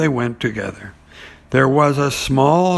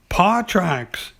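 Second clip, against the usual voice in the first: Piglet voice; 6 semitones higher than usual. Acted. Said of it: "said Piglet".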